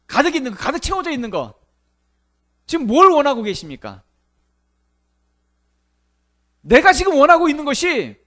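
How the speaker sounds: loud, high-pitched challenge to the congregation; forceful preaching. Real, not acted.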